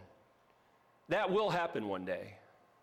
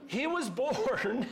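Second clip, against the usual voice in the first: slow, higher, drawn-out Southern drawl; 6 semitones higher, slower than usual. Acted. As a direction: stretch it out like a hammed-up Southerner. Jokey drawl after Southern accent bit.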